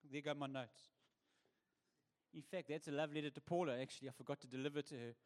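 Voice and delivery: quiet aside. Real, not acted. Aside after dropping notes.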